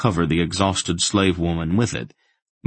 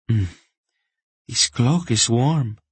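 high, slow, grateful woman; 6 semitones higher than usual. A narrator's reading. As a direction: savour it slowly with gratitude. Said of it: "Taiba said gratefully".

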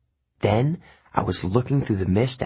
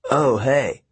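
protesting; 4 semitones higher than usual. Acted. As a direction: object hastily. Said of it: "he protested".

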